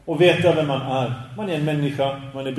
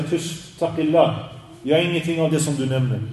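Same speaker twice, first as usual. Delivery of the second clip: humble rebuke. Retold or imitated. Scholar hushing praise from followers, lightly humble. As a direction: gently hush the praise away. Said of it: "han kommer säga".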